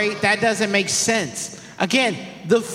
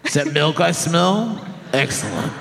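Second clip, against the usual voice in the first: a hint of a sly worm; lightly voiced worm poking its head out; 2 semitones lower, much faster than usual. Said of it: "This is my worm voice".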